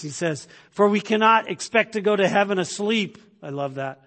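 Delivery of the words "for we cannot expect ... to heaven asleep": raised, slightly higher preaching voice; emphatic sermon quotation. Acted. Preacher quoting Spurgeon to his church, emphatic. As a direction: read it out forcefully to the congregation.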